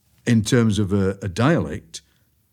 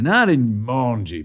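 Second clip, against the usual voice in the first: drawn-out broad Barnsley; slow Barnsley phrase, stretching the vowels; Barnsley dialect; slower than usual. Shown as a demonstration. Poet showing what specifically Barnsley talk is, broad Barnsley. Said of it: "but specifically Barnsley".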